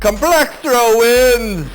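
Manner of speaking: slow, drawn-out villain boast; mad scientist gloat. Acted. Supervillain declares victory.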